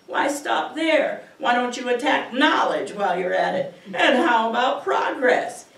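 loud, mocking challenge; scolding muse. Muse taunts the poet over attacking science, scolding. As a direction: needle the poet with taunting questions. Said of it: "Now is the muse".

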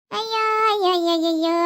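theatrical lament, starting high; exclaiming in dismay. Acted. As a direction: cry out in mock dismay at the crowd. Acted dismay at crowd at tank.

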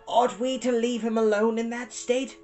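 high, quavering question. A narrator's reading. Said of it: "Sophie quavered".

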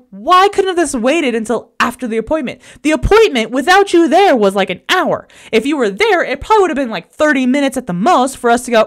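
mild mock yell at him; retold yelling. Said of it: "so I'm yelling at him".

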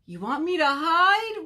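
high, loud wail of protest; hurt bird wailing in disbelief. A narrator's reading. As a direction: wail it loudly, rising high. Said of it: "wailed Bird".

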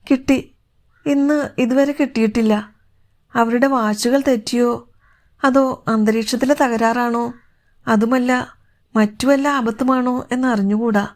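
a touch of anxious uncertainty; lightly voiced worried daughter figure. Anxious woman tells older woman the signal has not come, lightly worried.

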